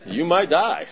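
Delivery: slow, loud, emphatic verdict; blunt warning. Retold or imitated. Sponsor to newcomer on the phone, blunt warning. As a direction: lay it out heavily, rising on the threat.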